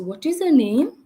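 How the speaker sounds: one gentle question, then wait; patient adult demo; single calm question. Shown as a demonstration. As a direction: ask once and leave space. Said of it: "And pause and see".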